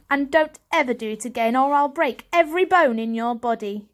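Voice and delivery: bully's warning; threatening. Acted. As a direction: spit the threat out. Julius threatening Varjak.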